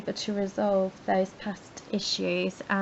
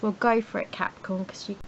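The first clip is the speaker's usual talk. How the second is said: hoarse, straining sore throat. Real, not acted. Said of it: "but my throat is so sore".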